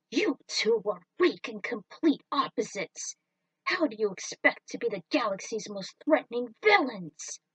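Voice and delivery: crush their dreams with scorn; lightly voiced villain dismissing minions; contemptuous villain. Villain berates aliens.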